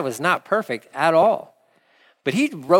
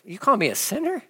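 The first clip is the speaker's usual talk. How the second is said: mock offended listener; 8 semitones higher than usual. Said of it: "That's offensive".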